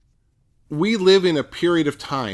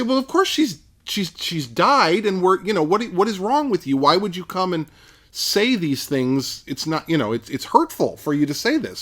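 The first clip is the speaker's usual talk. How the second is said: higher, scoffing crowd voice, incredulous; mocking crowd; 4 semitones higher than usual. Mourners scoffing at Jesus, higher and incredulous. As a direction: scoff at him like the disbelieving mourners. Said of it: "they laugh at him because they say".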